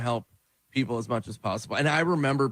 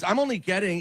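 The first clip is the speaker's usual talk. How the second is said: tag; 7 semitones higher than usual. Retold or imitated. Retold comedian pleading about money.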